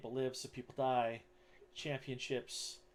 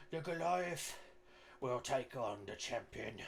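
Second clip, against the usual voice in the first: goblin arena announcer; slower than usual. Acted. Goblin announcer names the challenger to the crowd, slow announcer voice. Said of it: "homemade megaphone or whatnot".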